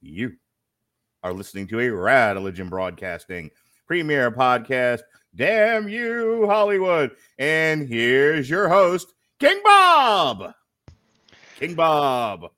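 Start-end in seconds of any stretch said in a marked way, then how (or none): 0.0-10.5 ringmaster. Pretend. Podcast intro announcement.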